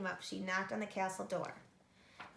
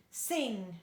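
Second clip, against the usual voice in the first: bellowed; 4 dB louder than usual. Acted. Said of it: "bellowed the giant".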